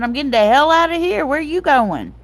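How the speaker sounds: high, loud re-enacted getaway shout; retold panic. Retold panicked flight from lightning.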